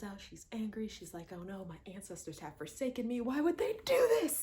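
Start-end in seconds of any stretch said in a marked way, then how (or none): 1.3-4.4 mock anguished cry. Voicing Shuri's angry outburst.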